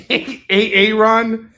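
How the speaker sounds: imitated comedy-sketch roll call; Key and Peele. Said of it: "Key and Peele".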